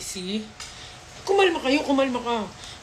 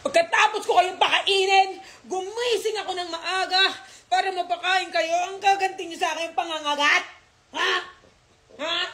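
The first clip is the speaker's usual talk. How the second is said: mock scolding; 8 semitones higher than usual. Scolding the dogs after bite.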